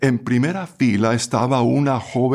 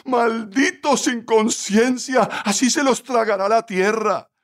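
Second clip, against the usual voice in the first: furious curse; 10 semitones higher than usual. A narrator's reading. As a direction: curse them with outraged force. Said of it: "lanzando una mirada furiosa hacia la ventanilla, exclamó".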